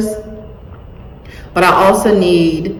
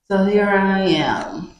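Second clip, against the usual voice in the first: whisper; 3 dB quieter than usual. Real, not acted. Starting vocal lessons, hushed aside.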